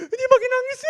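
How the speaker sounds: a high laugh breaking through the words. Real, not acted. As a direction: laugh while telling it. Laughing at own story.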